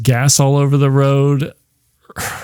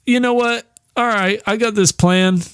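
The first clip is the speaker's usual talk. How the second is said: scheming heroine; 8 semitones higher than usual. Retold or imitated. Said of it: "She's like".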